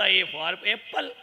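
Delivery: very slow, sing-song A for apple; school recitation. Retold or imitated. Monk recalling school lessons, slow sing-song recital. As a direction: chant it like a schoolchild.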